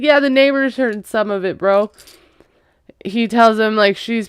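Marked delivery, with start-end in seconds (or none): 0.0-1.9 teasing punchline. Retold or imitated. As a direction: toss it off like a smirking cousin.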